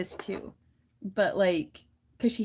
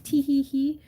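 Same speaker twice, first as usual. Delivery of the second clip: mischievous giggle; 6 semitones higher, 4 dB louder than usual. Retold or imitated. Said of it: "he'll be like".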